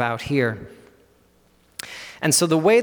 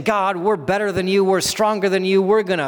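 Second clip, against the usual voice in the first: higher-pitched boastful defiance; mock boast, pitch raised; raging nations; 4 semitones higher than usual. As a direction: taunt God with a show of might. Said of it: "nations who are raging and they're showing all their might".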